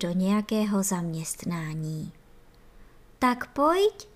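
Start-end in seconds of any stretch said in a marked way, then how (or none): 3.2-4.1 higher, bright glad invitation; the nurses gladly invite Ferda in; joyful call. A narrator's reading. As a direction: invite him in with delight. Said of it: "zaradovaly se chůvičky".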